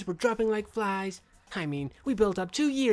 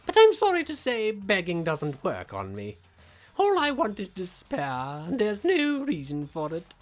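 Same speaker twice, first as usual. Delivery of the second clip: gleeful villain; 4 semitones higher, 5 dB louder than usual. Acted. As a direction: savour every word of despair. Villain proclaims despair.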